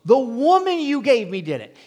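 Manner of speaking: high, loud, whiny blame; blaming Adam. Retold or imitated. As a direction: throw her under the bus out loud. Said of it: "What did he say?".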